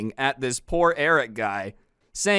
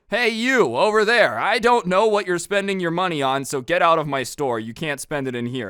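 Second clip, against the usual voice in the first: higher, louder at first, easing off; mock indignant call-out; 4 semitones higher, 3 dB louder than usual. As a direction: call out to a customer as a joke, then settle. Mock shopkeeper ordering customer out.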